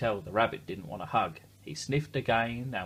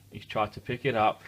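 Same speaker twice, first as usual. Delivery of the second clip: laughing whisper; 3 dB louder than usual. Real, not acted.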